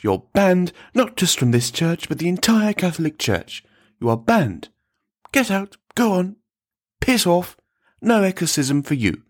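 high-pitched, indignant dismissal; irate priest laying down a ban; angry banishment. A narrator's reading. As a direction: throw them out in outrage. Priest angrily banishes Pep from church.

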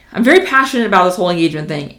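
quick, passionate rush; fast, excited. Real, not acted. Coach passionate about engagement, talking fast and excited. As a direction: talk really fast with excitement. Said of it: "by my talking really fast".

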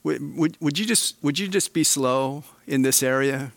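a hint of God pleading with Brad; lightly voiced God. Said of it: "It's like God saying".

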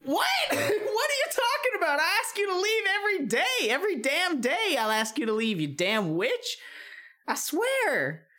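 furious yelling at the witch; angry shout. Acted. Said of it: "And Cannon says".

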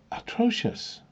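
atrocious, flung out high and indignant; outraged exclamation. Real, not acted. Emphatic outrage at leaders.

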